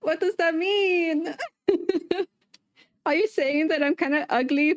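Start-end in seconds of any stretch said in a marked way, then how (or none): 0.0-2.3 baffled. Real, not acted. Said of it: "repeated as her own reaction".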